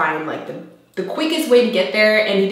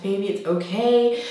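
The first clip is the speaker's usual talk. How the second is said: sweet, reassuring; 2 semitones higher than usual. Retold or imitated. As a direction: retell it tenderly, as if soothing someone. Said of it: "he was so sweet".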